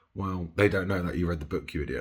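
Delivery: ordinary delivery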